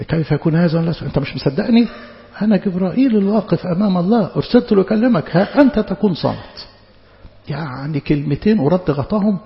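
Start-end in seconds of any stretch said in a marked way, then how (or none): 0.8-6.7 mock-stern angel scolding, half laughing; stern rebuke. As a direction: scold the doubting priest with a chuckle. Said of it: "وإيه فيهم صرامة". (توبيخ صارم بنصف ضحكة)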